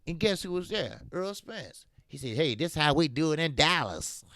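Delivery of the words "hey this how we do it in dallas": a light hint of a Dallas country accent. Quoting Earl Spence at the street fight, a light Dallas country accent. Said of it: "with that country accent".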